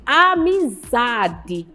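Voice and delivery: "amizade" very slowly, stretching the ZA; drawn-out tonic syllable. Shown as a demonstration. Teacher showing pupils the stressed syllable, "amizade" stretched on ZA. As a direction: lean long on the ZA in "amizade". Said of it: "a sílaba que você fala com mais intensidade".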